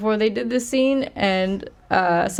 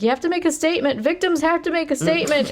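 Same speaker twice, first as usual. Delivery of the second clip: mock insistent cop; 9 semitones higher, faster than usual. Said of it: "He's like".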